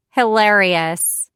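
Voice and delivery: drawn-out dry call across the room; sarcastic call out. Acted. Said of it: "I call out before shutting the door".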